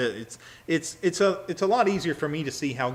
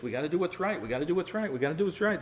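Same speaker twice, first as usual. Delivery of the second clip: urgent Judah; 7 semitones higher, much faster than usual. Retold or imitated. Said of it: "Judah goes through, you know, the spiel".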